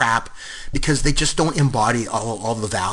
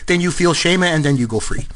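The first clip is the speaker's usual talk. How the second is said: put-on French accent; 3 semitones higher than usual. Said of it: "it's this French player".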